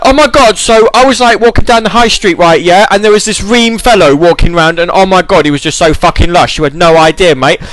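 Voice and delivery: put-on high, loud gushing Essex accent. Imitating Essex locals gossiping about a lush fellow, high Essex gush. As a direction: gossip like an excited Towie regular. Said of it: "it's like".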